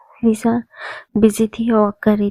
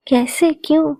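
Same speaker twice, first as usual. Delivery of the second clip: shocked; 5 semitones higher than usual. Acted. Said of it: "वो shocked".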